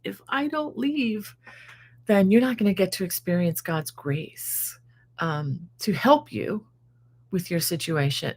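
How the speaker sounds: fighting back tears. Real, not acted. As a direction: near tears while talking about leaving her daughter. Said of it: "I'm trying not to cry about that".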